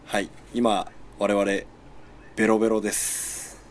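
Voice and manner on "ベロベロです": tipsy talk after drinking. Real, not acted.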